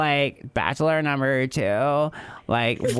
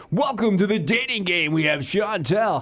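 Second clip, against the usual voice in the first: game show host; 6 semitones higher than usual. Acted. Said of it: "be the hosts together and be like".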